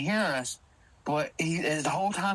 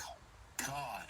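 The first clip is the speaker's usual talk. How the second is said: whispered concern; 3 semitones lower, 5 dB louder, slower than usual. Retold or imitated. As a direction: whisper to check he's okay. Checking on shaken friend.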